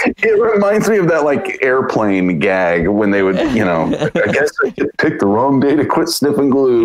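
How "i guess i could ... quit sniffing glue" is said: flat deadpan line. Retold or imitated. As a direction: say it dead flat. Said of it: "that deadpan delivery".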